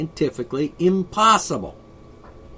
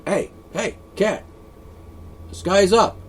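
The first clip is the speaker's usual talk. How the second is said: talking to the cat; 5 semitones higher, 4 dB louder than usual. Retold or imitated. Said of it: "say to the cat".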